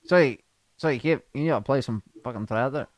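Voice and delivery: sluggish, muddled request; lightly put-on slurred voice; Martin Gillespie. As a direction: mumble it as the hard-to-follow bandmate. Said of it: "Martin Gillespie".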